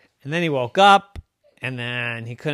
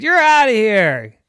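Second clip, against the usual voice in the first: loud, high "you're out" call; coach ejecting; 9 semitones higher, 9 dB louder than usual. Acted. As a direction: throw him out of the game.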